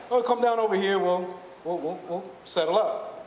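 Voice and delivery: lightly voiced hustler, starting high and slowing; a hint of a coaxing little Jamaican guy. Jamaican guy luring a tourist aside, lightly imitated coaxing voice. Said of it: "I see the Jamaican guy again".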